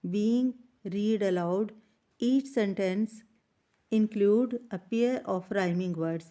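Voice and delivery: slow, careful dictation to the class; teacher reading the exercise instructions slowly; slow textbook read-aloud. Shown as a demonstration. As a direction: read each phrase out slowly for students.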